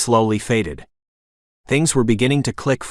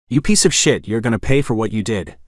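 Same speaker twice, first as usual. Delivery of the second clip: growled threat. Acted. Avenger to bully, a growled threat. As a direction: growl it like you want to crush him. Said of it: "I growled".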